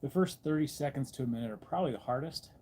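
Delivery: speaking while immersed in freezing water; in ice cold water. Real, not acted. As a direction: talk steadily through the cold shock. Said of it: "Adapting to the cold".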